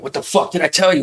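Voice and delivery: retold yelling. Boy berating his girlfriend in the restaurant, retold as angry yelling. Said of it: "Starts fucking yelling at her".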